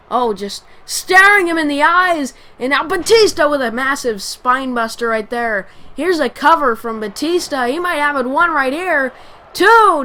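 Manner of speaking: rising excitement on the near-fall; wrestling commentator. Acted. Live wrestling play-by-play.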